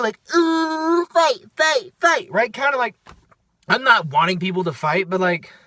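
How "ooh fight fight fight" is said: high-pitched schoolyard egging-on chant; excited schoolkid. Retold or imitated. Kid in middle school watching a fight, excited chanting. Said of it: "felt like a little kid".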